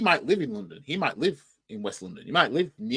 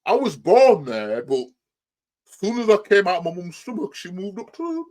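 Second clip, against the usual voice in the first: raised, loud mocking voice climbing higher; mock excuse-maker; 7 semitones higher, 7 dB louder than usual. Reactor mimicking a fan's excuse about his birthplace, mocking high voice. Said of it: "Unless it's that old chestnut".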